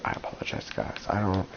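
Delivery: blocked nose, congested. Real, not acted. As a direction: talk with a stuffy nose. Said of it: "I sound, like, very congested".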